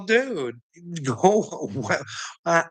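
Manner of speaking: normal talking voice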